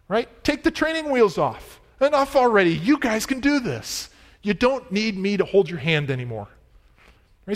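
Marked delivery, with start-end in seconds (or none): 0.4-6.5 higher-pitched urging, easing down by the end; animated pep talk in Paul's place; emphatic encouragement. Acted. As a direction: push them to go it alone. Voicing Paul urging church to manage alone.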